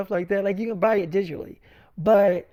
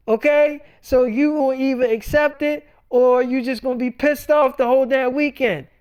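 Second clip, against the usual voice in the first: loud lecturing, slowing on the okays; telling his wife off; scolding; 2 semitones higher, 4 dB louder than usual. Retold or imitated. Retold argument with wife Tanera.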